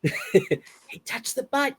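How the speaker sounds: a hint of a high squeaky fish; Finding Nemo impression. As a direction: dare him in a light squeak. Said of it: "my Finding Nemo impression".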